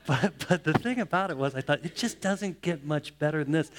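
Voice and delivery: delighted chuckle while speaking; laughing. Real, not acted. Pastor recalls his granddaughter dancing, laughing.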